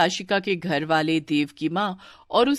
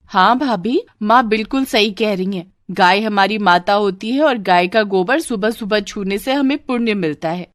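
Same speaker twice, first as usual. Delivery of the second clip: agreeing sister-in-law; 2 semitones higher than usual. Acted. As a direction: back up mother to the bhabhi. (माँ की हाँ में हाँ मिलाती ननद)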